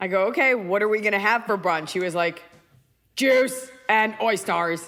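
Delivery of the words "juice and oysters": put-on robotic machine voice. Speaker retells a man's answer while he pretended to be a robot, imitating a robot voice. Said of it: "He was like pretending to be a robot".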